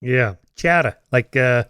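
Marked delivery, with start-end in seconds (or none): 0.6-1.0 "chowdah" in a Kennedy-style New England accent; mock New England accent, R dropped; Boston Kennedy accent. Shown as a demonstration. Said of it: "when Kennedy was president, they used to make fun".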